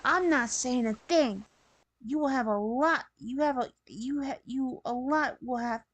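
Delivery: rushing through the line, tripping over words; hurried, stumbling read that restarts itself; rushed delivery. Acted. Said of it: "You were talking very fast, rushing through it".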